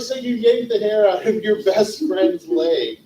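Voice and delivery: can't believe what you're hearing; amused disbelief at a best friend's confession; incredulous. Retold or imitated.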